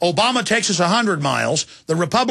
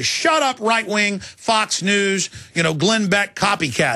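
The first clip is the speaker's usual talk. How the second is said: mocking a sneering heckler; slower than usual. Liberal critic shouting down the host, mocking slow sneer. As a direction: spit out the insult, then drag it. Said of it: "And they'd say".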